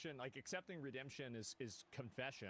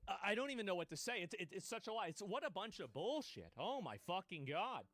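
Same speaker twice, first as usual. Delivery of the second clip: outraged disbelief; 4 semitones higher than usual. Real, not acted. Streamer fuming at the video's claim, outraged disbelief. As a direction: blow up at what the clip just claimed. Outraged reaction to heresy clip.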